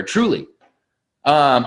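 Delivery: normal talking voice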